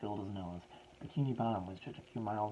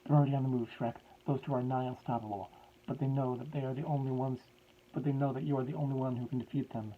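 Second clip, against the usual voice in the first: higher, much louder put-on professor accent; professor's voice; 3 semitones higher, 6 dB louder than usual. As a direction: redo the line properly in the old professor's voice. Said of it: "This is supposed to be in his voice".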